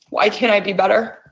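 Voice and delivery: fast, pressing question to herself; quick plea. Shown as a demonstration. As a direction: rush the question out. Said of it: "tapping phrase repeated".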